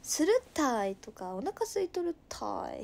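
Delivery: drawn-out Nagasaki "tai" endings; Nagasaki dialect demo. Shown as a demonstration. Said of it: "バッチバチの長崎弁で喋る". (語尾を伸ばした長崎弁の実演)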